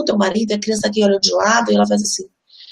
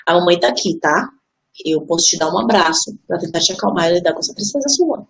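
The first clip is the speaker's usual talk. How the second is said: reassuring mother; 4 semitones lower than usual. Retold or imitated. Mother comforting crying child.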